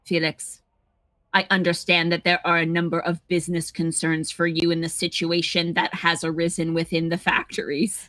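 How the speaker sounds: light mock French accent, formal; lightly voiced Belgian sleuth; put-on Belgian accent. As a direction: read the letter like a Belgian detective. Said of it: "sounding like she's not normally American".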